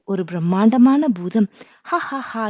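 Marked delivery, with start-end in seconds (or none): 1.8-2.5 higher, breathy-soft mock demon laugh; a spooky giant's laugh, lightly done; ghostly laugh. A narrator's reading. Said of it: "பயங்கரமான பேய்க்குரலில் சிரித்துக்கொண்டு". (பேய்ச் சிரிப்பு)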